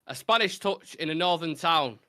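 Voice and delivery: measured rhyming recital; recited verse. Acted. Host reciting a rhyming football clue, measured verse delivery. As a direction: read it out like a poem.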